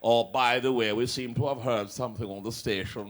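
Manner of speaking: a hint of a prim aristocrat reading a complaint; mock aristocrat. Host mocking the broadcasting regulator, lightly voiced aristocrat. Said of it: "the little aristocrat then".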